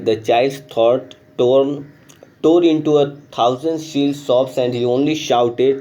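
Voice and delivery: slow, careful reading of the story text. A narrator's reading. Teacher reading the English lesson aloud, slow and clear. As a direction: read the passage slowly for the class.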